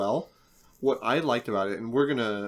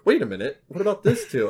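excited; 7 semitones higher, 5 dB louder than usual. Retold or imitated. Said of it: "And you were like".

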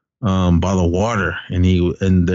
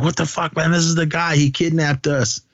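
retold yelling; 9 semitones higher than usual. Peter yelling at the departing hunters, mock high-pitched yell. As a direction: imitate indignant yelling without the volume. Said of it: "Peter was yelling at the hunters".

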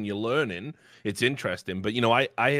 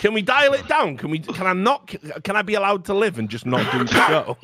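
exasperated pleading; 9 semitones higher, 5 dB louder than usual. Retold or imitated. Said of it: "I'm like".

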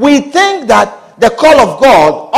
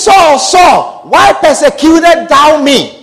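booming call; 2 semitones higher, slower than usual. Acted. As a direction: call out Saul with force. God's voice retold louder.

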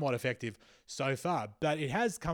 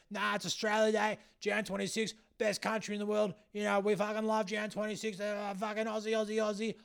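high, monotone caricature of a flag-waving bigot; racist Aussie patriot; 7 semitones higher than usual. Acted. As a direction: chant it high, mocking a jingoistic Aussie yob. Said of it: "all these racists are like".

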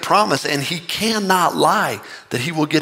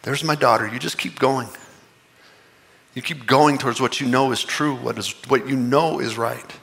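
fond God voice; 2 semitones lower, 3 dB quieter than usual. Retold or imitated. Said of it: "God just laughs because he's like".

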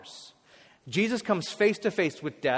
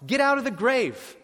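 high, loud summons; loud plain command; 7 semitones higher, 4 dB louder than usual. Acted. Jesus calls Lazarus from the grave, loud plain command. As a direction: shout it like an everyday order. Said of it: "just secular, like".

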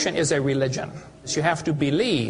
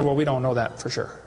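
a lower, hesitant professor; professor's voice; 6 semitones lower than usual. Retold or imitated. Professor admitting ignorance to the questioner, lower. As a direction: drop down into the cornered professor.

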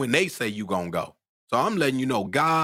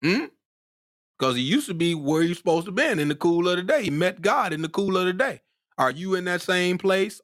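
higher, excited preacher's delivery; worked-up preaching; 8 semitones higher than usual. Real, not acted. Preacher pressing congregation about meeting God, worked up. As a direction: drive the point home, worked up. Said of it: "Y'all can see I'm getting worked up".

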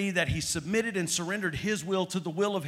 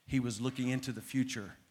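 much softer, lower, fading preacher voice; hushed crucifixion story from the pulpit; hushed sermon telling; 6 semitones lower, 5 dB quieter than usual. Acted. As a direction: draw them in, almost under the breath.

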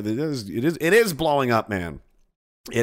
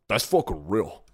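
condescending; 4 semitones lower than usual. Retold or imitated. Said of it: "condescending, full of myself attitude".

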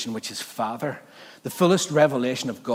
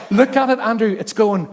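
higher, louder urgent pointing out; urgent wife; 7 semitones higher, 6 dB louder than usual. Retold or imitated. Wife urging Andrew to see the alpaca, excited. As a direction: insist he look now.

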